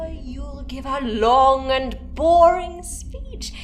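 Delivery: mock finish. Cuts off his threat mockingly.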